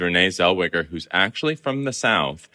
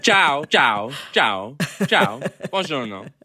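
Italian accent; 7 semitones higher, slower than usual. Shown as a demonstration. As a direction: imitate boisterous Italians calling out hello in Italian accents. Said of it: "Can I hear your Italian accent?".

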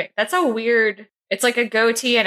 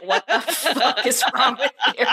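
mock UK friend; 5 semitones higher than usual. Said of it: "All my U K friends are".

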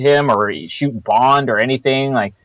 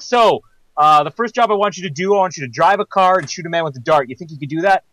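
lightly acted boss, higher pitched; imagined job interviewer; 5 semitones higher than usual. Kananga interviewing a would-be henchman, lightly acted. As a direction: play a villain interviewing a new hire. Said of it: "imagine his job interview that he had".

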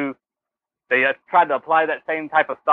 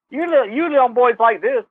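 a hint of the woman character, higher-pitched; lightly voiced film temptress; 7 semitones higher than usual. Woman character teasing boys with her toy, lightly acted. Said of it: "was it her that pulled out the".

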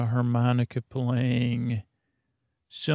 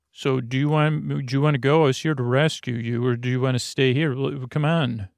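a hint of a hurried rescuer voice; non-regular voice; much faster than usual. Fabio rescuing Samantha from her cell, lightly put-on urgent voice. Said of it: "I'm talking in my non-regular voice".

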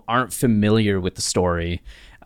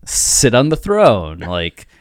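welcoming courtiers; slower than usual. Retold or imitated. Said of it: "they're all like".

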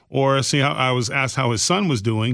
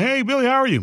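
high-pitched imitated hello; mock passerby greeting; 12 semitones higher, faster than usual. Demonstrating his catchphrase to Billy, high-pitched passerby greeting. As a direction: call a casual greeting, pitched well up.

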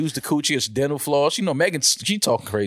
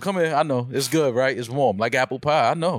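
tender voice. Retold or imitated. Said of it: "Damaris tell the nigga".

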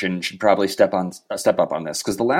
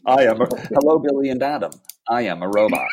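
toy robot voice. Pretend. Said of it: "we hear it in your voice".

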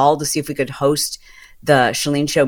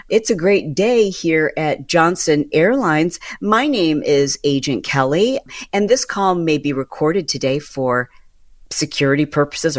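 scripted agent greeting. Retold or imitated. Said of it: "And I'm just gonna make this up".

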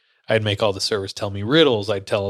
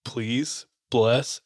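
quiet, broken-up single words; retold halting, stuck prayer; struggling to speak; 4 dB quieter, much slower than usual. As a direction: re-enact forcing out a prayer word by word. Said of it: "I was struggling to say words".

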